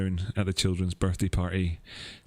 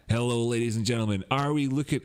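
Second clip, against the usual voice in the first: put-on failed Crypto Kirby accent; 3 semitones higher than usual. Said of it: "I can't do his accent".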